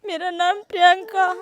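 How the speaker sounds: tearful answer; crying. Real, not acted. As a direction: says her name through tears. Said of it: "महिला है जो रो रही है".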